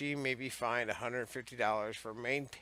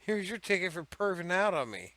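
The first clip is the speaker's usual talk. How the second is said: louder, higher indignant accusation; indignant ticket; 7 semitones higher, 5 dB louder than usual. Acted. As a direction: hand over the ticket with outrage. Skit, indignant ticket line.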